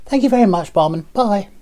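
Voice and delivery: very high, dainty put-on farewell; mincing little customer. Little pink tarmac thanking the barman, high and mincing. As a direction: mince out with a high-pitched thanks. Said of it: "Minces out".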